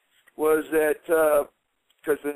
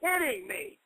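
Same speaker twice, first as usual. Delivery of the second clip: higher, incredulous outburst; can't believe what he just heard; stunned disbelief; 8 semitones higher than usual. Retold or imitated. The speaker reacting to Knobbs backing down, higher and incredulous. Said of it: "I went".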